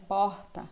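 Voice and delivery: "Porta" with a long, dragged R; R arrastado. Shown as a demonstration. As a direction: stretch the R in "Porta" like a carioca or baiano. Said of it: "já fala um R mais arrastado". ("Porta" com o R arrastado)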